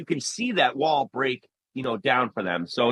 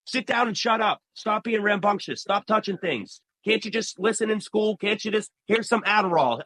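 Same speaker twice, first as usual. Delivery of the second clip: higher-pitched mock scolding adult; retold scolding; 5 semitones higher than usual. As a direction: run off impatient orders at a child, imitating grown-ups. Scolding adults from his childhood.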